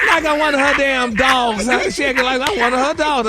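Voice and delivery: indignant outburst. Real, not acted. Indignant rant.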